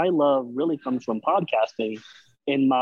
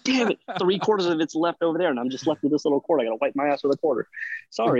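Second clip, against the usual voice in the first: exasperated; 4 semitones higher, faster than usual. Retold or imitated. Acted frustration on the toilet.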